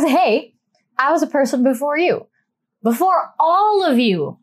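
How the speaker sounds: lightly voiced Charlotte insisting she matters. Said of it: "She goes".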